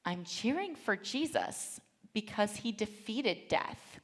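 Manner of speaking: put-on slow, matter-of-fact child's explanation; lightly voiced young son. Son explains his cheering to his mother, slow lightly childlike voice. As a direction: explain it slowly, with a hint of a little boy. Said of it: "and he says".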